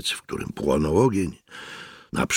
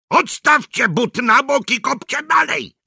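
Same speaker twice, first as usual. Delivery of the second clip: high, raised order; shouted order; 4 dB louder than usual. Acted. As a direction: bark the order. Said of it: "krzyknął Mikke do Hirschlanda".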